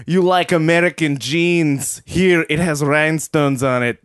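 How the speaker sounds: put-on hammy Russian accent. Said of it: "That's not an Arab accent".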